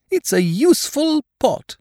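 high-pitched, eager bear voice; eager Pooh. A narrator's reading. Pooh presenting Eeyore his gift, eager.

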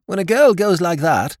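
high, loud know-it-all lord; insufferably knowing silly lord; omniscient lordship. A narrator's reading. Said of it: "insufferable air of omniscience".

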